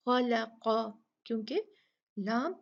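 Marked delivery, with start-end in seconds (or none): 0.1-0.8 खलक़ा with the lam light between heavy letters; correct thin lam. Shown as a demonstration. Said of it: "बारीक ही पढ़ा जाएगा".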